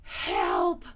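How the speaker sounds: loud, drawn-out distressed call; Pooh stuck. A narrator's reading. Pooh trapped inside the honey jar, loud distressed cry. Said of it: "he said inside the jar".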